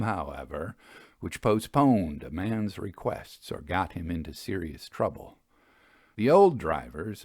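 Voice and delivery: calm Victorian ghost-story narration. A narrator's reading. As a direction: unfold the tale steadily for listeners.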